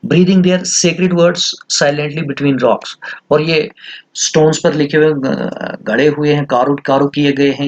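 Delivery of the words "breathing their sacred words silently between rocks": reading an English line very slowly; careful slow reading of a travel text; slow reading aloud. Shown as a demonstration. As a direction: read out the quoted text word by word. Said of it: "जो prayer flags हमने पहले भी पढ़े".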